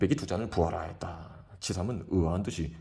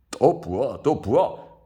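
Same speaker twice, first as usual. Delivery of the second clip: loud, rising shout for more; 5 semitones higher, 8 dB louder, much slower than usual. A narrator's reading. Drunk Kim shouting for more wine. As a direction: call out for another round. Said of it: "라고 외쳤다".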